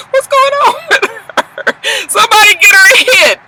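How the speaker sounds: very high, squeaky mock alarm; alarmed squeal. Real, not acted. Reacting to Carly's crazy smile.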